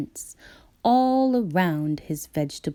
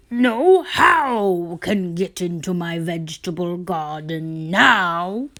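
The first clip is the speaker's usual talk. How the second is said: gloating farmer; 6 dB louder than usual. Acted. Farmer exclaims he outsmarted the bunnies, loud triumphant boast. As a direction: crow that nobody can get in.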